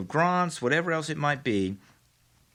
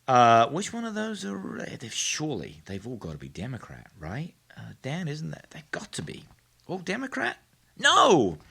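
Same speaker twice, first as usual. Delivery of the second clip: mock suspense; 2 semitones higher than usual. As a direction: lead them on, then snap the reveal. Mock expectation then reveal.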